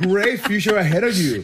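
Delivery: sarcastic. Acted. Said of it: "your sarcasm is so funny to me".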